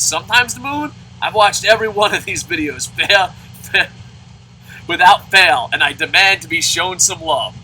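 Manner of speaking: mock outrage, demanding love; lightly voiced offended commenter quoting back; indignant viewer. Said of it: "He said".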